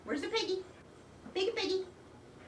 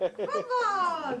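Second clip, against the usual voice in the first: laughing, excited shout of the word; excited cheer. Real, not acted. Cheering dog's toy, laughing.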